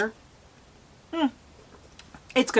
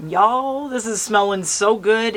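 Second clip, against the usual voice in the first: excited; 4 semitones higher, 7 dB louder, slower than usual. Real, not acted. Excited about candle scent.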